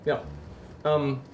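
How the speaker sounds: a lightly put-on Russian accent with a different vowel set; Space Russian. Streamer keeps a light Russian accent on a donation request. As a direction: hold a jokey Russian accent while chatting. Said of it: "I'm doing Space Russian dialect".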